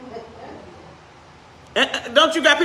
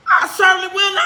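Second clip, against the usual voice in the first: higher and louder, half-laughing, overprotesting; mock indignant vow; 6 semitones higher, 3 dB louder, faster than usual. Preacher voices Israelites promising Joshua, laughing mock protest. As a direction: swear it too hard, like you don't mean it. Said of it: "I can just hear him".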